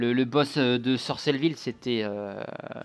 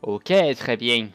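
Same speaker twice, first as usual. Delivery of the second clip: southern French; 5 dB louder, much slower than usual. Pretend. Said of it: "je prends un accent du sud".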